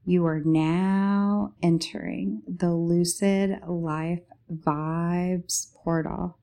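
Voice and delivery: drawn-out slow intro announcement; slow announcer. Acted. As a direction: announce the portal grandly and slowly. Announcing entry to the portal.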